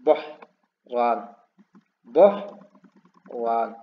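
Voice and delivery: बहरान very slow with a long majhul ओ; drawn-out word. Shown as a demonstration. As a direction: stretch बहरान, holding the ओ. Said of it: "ओ के साथ, बहरान". (ओ खींचकर बोहरान धीरे से)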